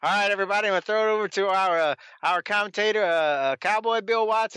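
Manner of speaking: a hint of a hesitant TV host; lightly mimicking a fumbling announcer; Boyd Pierce impression. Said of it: "that's what Boyd does this week".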